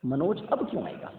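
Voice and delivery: अब leaned on, falling close; stress on अब. Shown as a demonstration. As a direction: read Manoj अब क्यों आएगा with weight on अब. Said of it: "अब देखो, अब आपने फिर से वही सेंटेंस पढ़ा".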